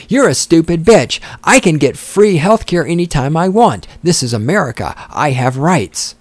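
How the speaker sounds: mock the entitled voter like a bratty teen; mock liberal brat. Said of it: "let's insert some other stuff".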